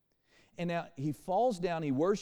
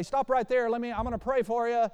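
raised, loud, hurried putting-off; mock preacher refusal; 7 semitones higher, 5 dB louder than usual. Imagined Jesus stalling the leper, mock loud declaring. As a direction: hold someone at a distance, high and loud.

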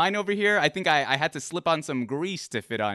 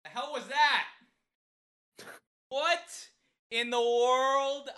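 surprised; 10 semitones higher, 4 dB quieter than usual. Real, not acted. Startled by the impression he heard.

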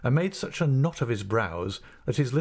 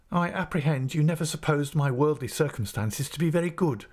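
dignified assistant master; 7 semitones higher than usual. Acted. Mell answers with dignity.

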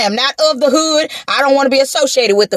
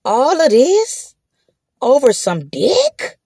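inner exasperation; slower than usual. Retold or imitated. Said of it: "in my mind".

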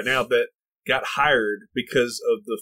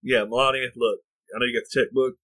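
put-on Italian accent; 3 semitones lower than usual. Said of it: "Italian accent".

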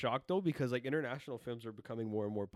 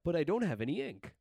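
imitating poorly acted dubbing, raised pitch and volume; mock a badly voiced dub actor; loud, higher-pitched parody of dub acting; bad English dub; 6 semitones higher, 5 dB louder than usual. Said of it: "not a lot of emotion in it".

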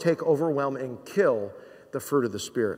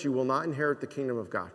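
quieter and quicker, dropping the voice on "inherit"; hushed warning; 4 semitones lower, 7 dB quieter, faster than usual. Shown as a demonstration. Preacher repeating the warning to the congregation, hushed. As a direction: let the warning sink in softly. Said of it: "You live like this".

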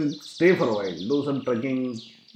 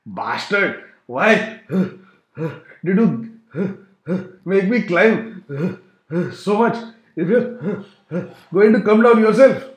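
mild mock growl; 2 semitones higher, 3 dB louder, much slower than usual. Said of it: "he growled".

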